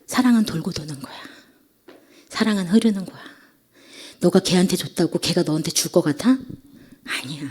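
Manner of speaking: a quiet, measured divine answer; 하나님의 말씀 재연. Retold or imitated. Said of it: "말씀하신 게 있었어요". (나직이 타이르듯)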